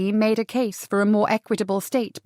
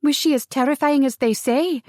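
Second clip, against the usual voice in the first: delighted curiosity; 5 semitones higher than usual. Acted. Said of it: "widened her eyes in delight".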